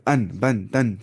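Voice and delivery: अन, बन, तन with a clean n, not held in the nose; clear noon sakin. Shown as a demonstration. Teacher showing noon sakin without nasal hum, clear n. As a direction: end each syllable straight on a clear n. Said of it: "यहाँ पे नाक की आवाज़ नहीं छुपाते".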